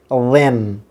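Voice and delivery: then said slowly with a voiced th; careful then. Shown as a demonstration. Teacher repeats the word, slow voiced th in then. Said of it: "আবার বলছি".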